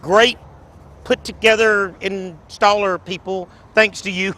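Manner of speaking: un accenno di voce da presentatore, più acuta; fair voice. Pretend. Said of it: "should I do my fair voice?".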